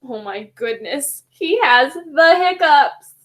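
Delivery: lightly voiced penguin with gasping hiccups; hiccuping penguin. Penguin character talking to the kids with hiccups. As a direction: play the hiccuping penguin, gasping mid-word.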